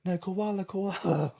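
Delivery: high, teasing sing-song; playful dad parody; dad mocking sellers. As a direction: throw back a joke animal. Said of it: "So Dad started going".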